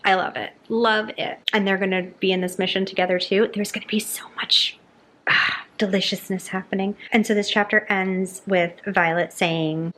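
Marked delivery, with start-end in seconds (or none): 3.5-6.9 excited whisper. Real, not acted. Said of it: "whisper heard".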